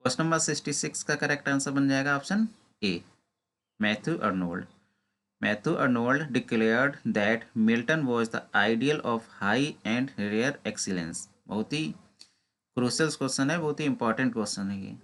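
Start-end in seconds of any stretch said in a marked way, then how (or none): 5.4-11.2 slow, deliberate reading of an exam question. Acted. Teacher reading a quiz question to exam students, slow and deliberate. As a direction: read each word out carefully, like dictation. Teacher reads answer slowly.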